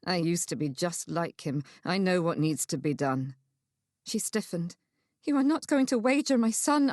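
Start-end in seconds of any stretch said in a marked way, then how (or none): 0.1-3.3 lightly voiced man, low and serious; low, resolute confession; grim male character. 5.2-6.9 high, tense challenge; higher-pitched, disbelieving accusation; alarmed accusation. Acted. Alarmed mother stiffens, accuses him.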